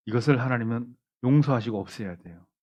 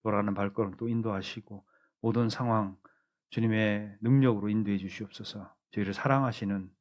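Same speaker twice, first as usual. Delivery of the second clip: closing prayer. Acted. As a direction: pray over the church, gently and humbly.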